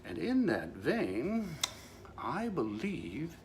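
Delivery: slow, grand pronouncement; hammed-up hypnotic command to his wife; mock solemn decree. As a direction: draw each word out like a royal edict.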